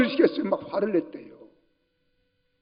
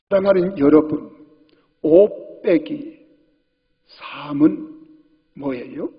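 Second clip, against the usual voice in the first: imitating a lecturer; 3 semitones higher than usual. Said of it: "이거 황수관 박사가 하는 말이에요".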